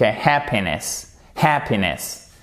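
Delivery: slow "happiness" with short first syllable closed on p; HAP-piness. Shown as a demonstration. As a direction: stress HAP in "happiness", falling off after. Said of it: "elle va jusqu'au P".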